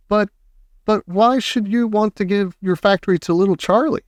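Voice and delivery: put-on high, stammering old man. A narrator's reading. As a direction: stutter it like a stunned old man. Grandpa Joe stunned.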